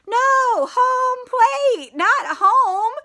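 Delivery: high, loud group shout; yelling. Acted. Friends yelling at Froggy to turn back, high and loud. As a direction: yell to stop him. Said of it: "His friends yelled".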